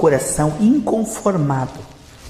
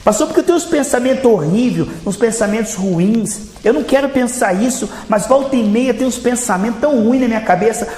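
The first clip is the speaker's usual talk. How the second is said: troubled churchgoer; 4 semitones higher than usual. Acted. Fiel aflito fala ao pastor.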